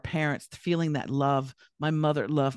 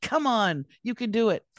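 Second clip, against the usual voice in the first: American cheerleading; 5 semitones higher than usual. Retold or imitated. Imitating upbeat Americans cheering a friend on. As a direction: cheer them on like an eager coach. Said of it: "Americans have this undeniable".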